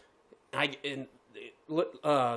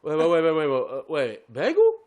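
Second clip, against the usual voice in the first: put-on slow-witted drive-thru kid; 3 semitones lower, 4 dB louder than usual. Drive-thru kid lost over a bagel order, hammed-up confusion. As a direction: stammer along low, then leap up on the last word. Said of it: "This kid sounds like a fucking".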